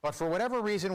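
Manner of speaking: ordinary delivery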